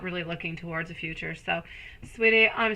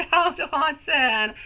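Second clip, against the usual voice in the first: laughing scold; 8 semitones higher, 4 dB louder, much slower than usual. Real, not acted. Laughing at the pet Watson.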